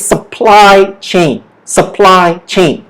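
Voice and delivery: "supply chain" with PLY held and stronger; slow model of "supply chain", weight on PLY; stress on PLY. Shown as a demonstration. Teacher introducing the second word, stress on PLY in supply chain. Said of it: "the stress is on ply".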